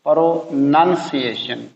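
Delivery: प्रोनंसिएशन drawn out slowly, pro-nun-see-ay-shun; slow careful model. Shown as a demonstration. Teacher slowly modelling the word for students, slow and careful. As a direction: spell out प्रोनंसिएशन slowly, syllable by syllable. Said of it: "इसको पढ़ना है".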